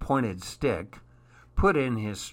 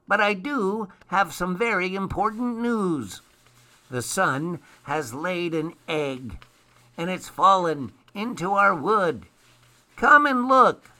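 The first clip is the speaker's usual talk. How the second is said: an elf announcing big news, pitched up; excited elf character; 7 semitones higher than usual. A narrator's reading.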